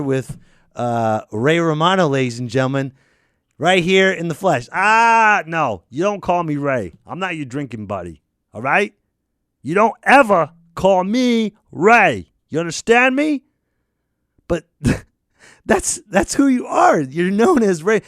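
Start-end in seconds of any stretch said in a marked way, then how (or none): 4.7-13.4 mock menacing. Menacing celebrity bit.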